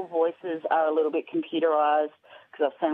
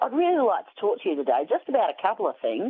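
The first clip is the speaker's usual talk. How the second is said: put-on polite, insistent Australian accent, high and swooping; 5 semitones higher than usual. Retelling a phone call from a charity caller: Mitch's Australian accent. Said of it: "he had this Australian accent".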